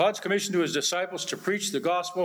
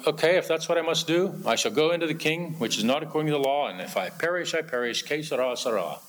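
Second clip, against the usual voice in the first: stoic resignation. Retold or imitated. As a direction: give up gently, whatever happens. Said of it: "Sounds a little like".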